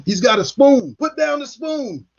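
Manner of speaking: mock officers yelling about a spoon. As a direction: make the order sound absurd. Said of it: "They kept saying".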